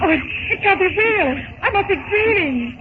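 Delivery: gasping in amazement at the sight; amazed. Acted. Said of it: "then blinks in amazement".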